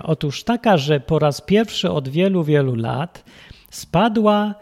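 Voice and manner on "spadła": slow, loud, drawn-out reveal; dramatic announcement. Acted. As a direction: stretch the news out for drama.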